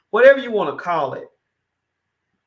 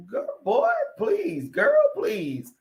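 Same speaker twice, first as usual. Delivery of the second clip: dismissive; slower than usual. Real, not acted. Dismissing politicians protecting their money.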